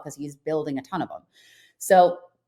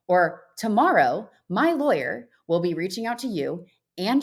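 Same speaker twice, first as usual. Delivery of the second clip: firm ultimatum. Retold or imitated. Retelling her firm ultimatum to agent.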